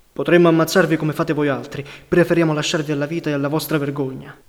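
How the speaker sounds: loud, hard threat that opens with force; threatening. Acted. Partisans threatening prisoners lined against a wall, loud and hard. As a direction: make the prisoners feel their shame. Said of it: "e minacciati".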